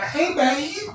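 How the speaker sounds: high drawn-out hey babe; flirty mock call. He calls out to a woman in the club, flirting. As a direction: flirt with a rising hook. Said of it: "and I'm like".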